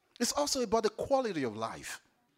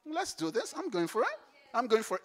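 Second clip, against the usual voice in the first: determined; 5 semitones higher than usual. Pretend. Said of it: "see the bump and say".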